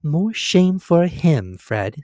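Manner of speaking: high, loud, slow indignation; indignant young woman. A narrator's reading. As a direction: scold him, playfully offended. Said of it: "said Scrooge's niece indignantly".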